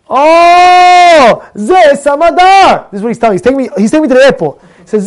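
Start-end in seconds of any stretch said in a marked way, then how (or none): 0.1-2.9 high, loud recognition, drawn out on Smadar; the cabbie suddenly knows the company; excited cab driver. Retold or imitated.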